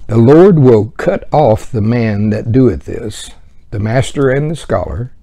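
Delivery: slow, loud scripture read. Acted. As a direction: read it out slowly like holy writ. Reading scripture aloud.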